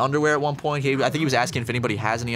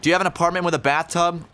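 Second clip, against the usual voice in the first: mild mock yell, higher in pitch; imitating yelling weirdo; 5 semitones higher than usual. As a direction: lightly act out the ranting stranger. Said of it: "he's yelling to himself".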